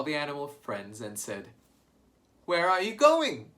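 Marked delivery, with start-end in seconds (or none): 2.4-3.5 silly goose voice. Acted. Lucy Goosey asks.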